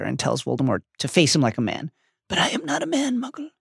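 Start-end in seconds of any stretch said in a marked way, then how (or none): 2.3-3.5 barely audible, higher cold voice; icy cold. Acted. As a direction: breathe it out coldly. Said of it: "the cold voice barely audible now".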